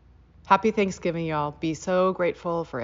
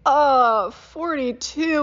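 much higher, loud, slow triumphant announcement; crowning number; 8 semitones higher, 8 dB louder, much slower than usual. Retold or imitated. Kid announcing the crowning chew count, triumphant. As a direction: announce the winning number with glee. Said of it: "and I'd say".

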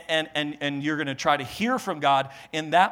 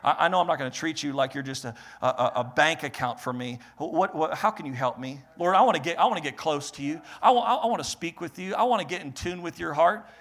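humble sincere prayer; 3 semitones lower, 5 dB quieter than usual. Retold or imitated.

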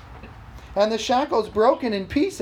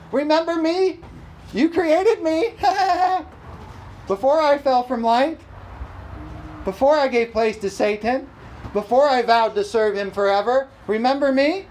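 lightly voiced devil, pitched up; devil's taunt; 4 semitones higher than usual. Devil reminds Jesus of his fall, mock taunting. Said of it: "That's what he says to you and me".

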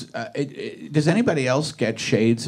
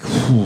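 loud sigh; 6 dB louder than usual. Retold or imitated. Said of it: "I just sigh really loudly".

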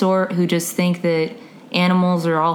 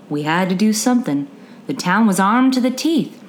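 put-on Southern accent. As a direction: read it with a gentle Southern accent. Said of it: "bad Southern accents I did".

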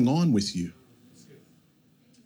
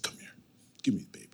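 very soft, near-whispered, lower voice; hushed calm mother; 8 semitones lower, 14 dB quieter, much faster than usual. Retold or imitated. Wife taking the crying baby from dad, hushed and calm. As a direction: say it softly, quietly taking charge.

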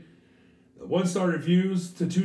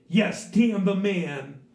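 hippie white person; 4 semitones higher, 4 dB louder, much slower than usual. Retold or imitated. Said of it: "white people very".

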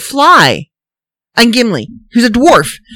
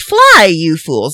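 the wrong Gandalf line, hammed up; mock Gandalf; 4 semitones lower, slower than usual. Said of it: "Apparently, he says".

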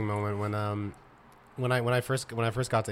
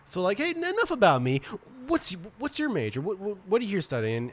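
high nervous deflecting voice; 7 semitones higher than usual. Retold or imitated. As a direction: pitch up to dodge the question. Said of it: "I'm like".

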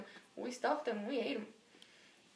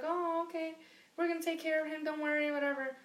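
lightly raised, breezy reassurance; a hint of neighbours reassuring the kid; mock reassuring neighbours; 5 semitones higher than usual. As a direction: play the sweet neighbours promising care.

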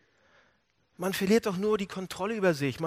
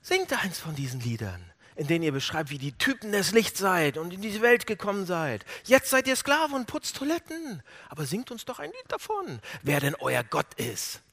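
Spott. Retold or imitated. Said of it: "sie veralbern ihn weiter".

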